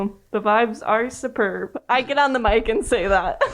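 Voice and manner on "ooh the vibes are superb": deadpan, flat announcement; monotone voice. Acted. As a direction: say it with zero excitement. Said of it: "Just in that really monotone voice".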